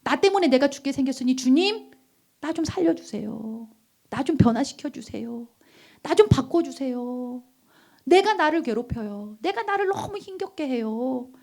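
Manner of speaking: mild acted plea to the Lord; pleading cry. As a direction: imitate crying out in prayer, without full force. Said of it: "소리치는 거예요". (주님께 호소하는 기도 흉내)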